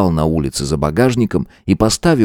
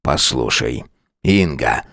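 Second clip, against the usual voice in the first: softer, lower plea; 7 semitones lower, 3 dB quieter, slower than usual. Acted. Husband softens.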